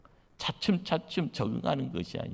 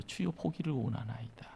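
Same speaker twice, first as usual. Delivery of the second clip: faint, softer, timid plea; dying voice; 7 dB quieter than usual. Retold or imitated. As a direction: murmur it as if fading away. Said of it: "다 죽어가는 소리요". (다 죽어가는 소리)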